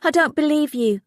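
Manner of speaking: high, loud shocked outburst; shocked recoil. A narrator's reading. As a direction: recoil in disbelief. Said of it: "Molly recoiled".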